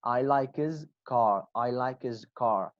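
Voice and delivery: "his car" run together as one word; linked his car. Shown as a demonstration. Teacher showing students how the phrase links. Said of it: "will be".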